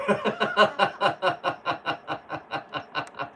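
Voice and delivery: long real burst of laughter. Real, not acted. Laughing at a viewer's funny comment. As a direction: crack up at the comment.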